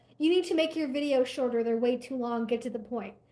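plain

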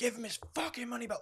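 acted, very high, very loud screaming. Retelling a confrontation with a woman: imitating own screaming. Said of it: "screaming at her".

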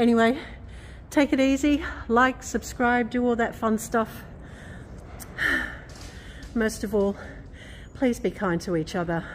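puffing, winded, short of breath. Vlogger signing off to viewers at the end of a video, out of breath. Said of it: "bit out of breath here".

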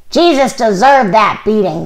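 spat-out, hostile, bitter snarling jeer. An old man in an angry crowd, snarled. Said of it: "snarled an old man".

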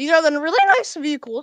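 voice breaking mid-line, cracking and jumping high. Speaking to the boys, voice cracking. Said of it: "Voice crack".

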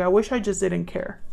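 ordinary talk

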